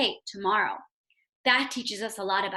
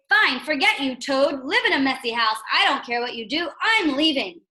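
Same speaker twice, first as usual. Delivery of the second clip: louder, fed-up, storming off; angry brush-off; 4 dB louder than usual. Pretend. Teacher voicing a pretend angry Frog, louder. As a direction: give up on him angrily. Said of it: "So how did Frog react".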